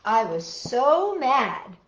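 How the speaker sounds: slow, lightly stretched "so mad"; dramatic title reading. A narrator's reading. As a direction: announce the title slowly to children. Reads title again.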